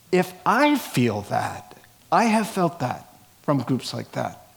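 light Brooklyn accent slipping in. Real, not acted. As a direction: talk with a hint of Brooklyn. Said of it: "hear my little Brooklyn accent coming out there".

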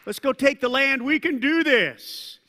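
rally the group with confidence; Caleb's upbeat voice. Retold or imitated. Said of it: "Caleb's voice".

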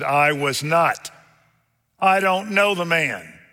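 emphatic denial. Retold or imitated. Preacher voicing Peter denying he knows Jesus, emphatic denial. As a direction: deny it hotly, voice climbing.

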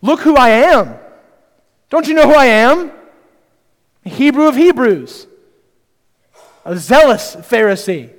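puffed-up, self-important bragging; proud declaration, voice lifted mid-boast; self-exalting boast. Acted. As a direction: brag as if everyone should know you. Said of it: "You hear it in Paul's tone here".

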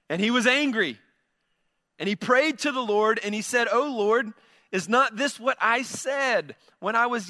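measured, solemn Bible reading; scripture reading. Acted. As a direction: read the passage with weight.

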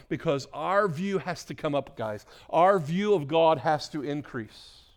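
forceful sermon delivery; impassioned preaching. Real, not acted. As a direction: drive each phrase home to the congregation.

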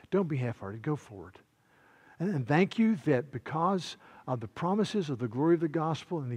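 prayerful pleading voice; earnest prayer. Acted. Pastor praying over the congregation, earnest prayer. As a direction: pray it with earnest urgency.

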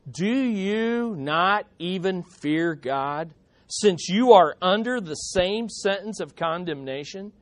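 slow, weighty reproof; rebuking. Acted. One criminal correcting the other, stern rebuke. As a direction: reprove him with measured, drawn-out words. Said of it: "and rebuking him".

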